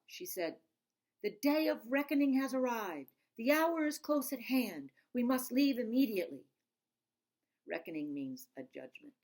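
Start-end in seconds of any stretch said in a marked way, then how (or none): 1.2-6.5 Granny's grand warning. Acted. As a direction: announce doom like an old grandmother. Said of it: "Granny woke me up".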